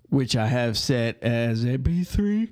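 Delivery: talking through a yawn; words stretched by a yawn. Real, not acted. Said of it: "I apologize for the, the yawning".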